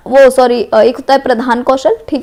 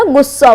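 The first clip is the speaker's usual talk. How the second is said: गुस्सा said with heavy weight and a falling tune; weighted word. Shown as a demonstration. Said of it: "गुस्सा को थोड़ा सा ऐसे वजन डाल के". (गुस्सा शब्द पर भारी ज़ोर)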